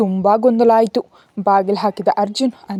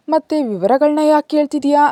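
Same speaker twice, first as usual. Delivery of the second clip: a stern demanding question, pitched up; harsh question; 6 semitones higher than usual. A narrator's reading. Arjun demands why Anvika wants details, harsh. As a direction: press her hard for an answer. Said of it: "ಕಠಿಣವಾಗಿ ಕೇಳ್ದ".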